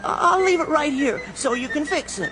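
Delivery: winded, puffing between words; out of breath. Acted. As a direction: gasp it out after running. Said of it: "just let me catch my breath".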